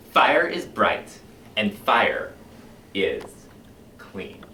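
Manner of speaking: a zealous fire chief, swinging from hushed to loud; commanding book-burning fire captain; fiery fire captain. Acted. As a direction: preach the burning of books like a fanatic. Performs Beatty's monologue opening.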